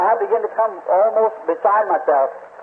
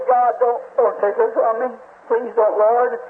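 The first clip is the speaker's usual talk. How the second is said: mildly raised, pleading prayer; retold tearful plea; 3 semitones higher than usual. Husband begging God for his sick wife's life, retold tearful plea. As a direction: plead with a touch of crying. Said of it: "I started crying".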